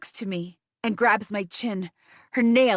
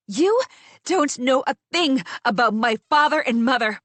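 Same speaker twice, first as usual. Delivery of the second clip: sharp, louder snap back; angry retort; 3 dB louder than usual. Acted. Narrator snapping at Ariadna, angry and louder. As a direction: bite back hard, offended.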